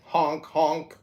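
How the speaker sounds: goofy clown honk; silly clown. Pretend. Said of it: "It means I'm wearing a clown outfit".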